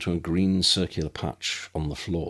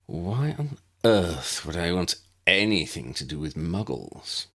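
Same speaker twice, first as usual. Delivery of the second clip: disdain. Acted. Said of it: "voice dripped with disdain".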